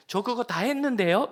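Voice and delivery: high, loud smug reply; a brash youth talking back to elders; cheeky boast. Retold or imitated. Cheeky young man boasting.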